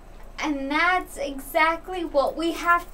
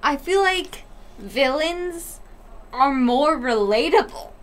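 talking through hiccups. Real, not acted. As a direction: hiccups breaking the flow. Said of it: "shut up. The fuck about the hiccups".

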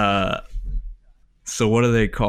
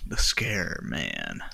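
spooky whisper; 8 semitones lower, 6 dB quieter, much slower than usual. Acted. Naming a spooky monster.

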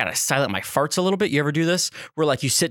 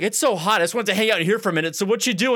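imitating the boss; 4 semitones higher than usual. Boss chatting casually.

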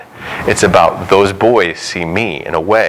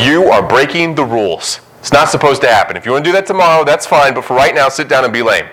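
mocking Pharisees; 4 semitones higher than usual. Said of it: "They're like".

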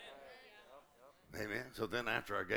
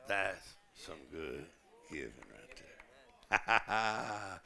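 impressed Jesus; 2 semitones lower, 3 dB louder, much slower than usual. Retold or imitated. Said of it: "even Jesus goes".

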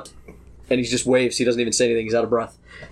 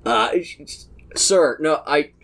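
stammering, hesitant underling; flustered guard; slower than usual. Acted. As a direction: stumble over the words, intimidated by a noble. Guard flustered by intimidating noble.

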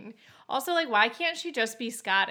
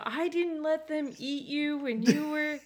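Yondu; 6 semitones higher than usual. Acted. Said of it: "like, a real dad because he's always repeating stories".

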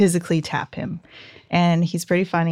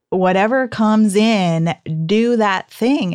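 quoting Mel Robbins; 2 semitones higher, 3 dB louder, slower than usual. Retold or imitated. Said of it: "Mel Robbins ... she's like".

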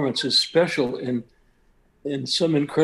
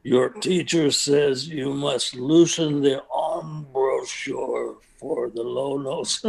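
put-on slow gravelly old conductor; lightly voiced gruff conductor; slower than usual. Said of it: "in a gravelly voice".

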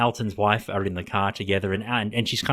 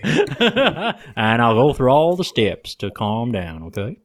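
slow Texan drawl with laughter; bad Texan accent; 4 dB louder, much slower than usual. Doctor promising steps to calm down, mock Texan. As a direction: keep the mock Texan going, amused. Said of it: "my worst Texan accent".

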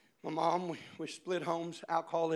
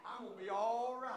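softer, almost to himself; quiet build-up; 3 semitones higher, 6 dB quieter than usual. Acted. Quiet set-up before shouted repeat.

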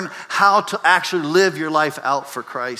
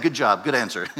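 lower, mildly patronizing praise; head-patting praise; 5 semitones lower than usual. Retold or imitated. Jesus praising the lawyer like a student, gently condescending. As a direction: pat a student on the head with words. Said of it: "patting his student on the head".

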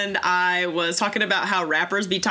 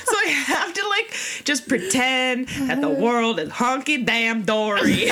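laughing; 3 semitones higher than usual. Real, not acted. Laughing while talking.

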